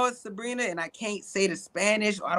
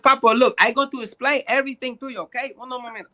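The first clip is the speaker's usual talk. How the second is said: put-on higher, hurried Spanish-accented English; 5 semitones higher, faster than usual. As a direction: explain in a mock Spanish accent, dropping off at the end. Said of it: "I just use the accent".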